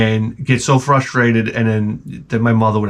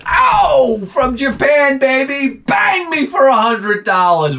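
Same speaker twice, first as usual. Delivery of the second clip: hyped up; 13 semitones higher, much slower than usual. Retold or imitated. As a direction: whoop it up. Excited about import game.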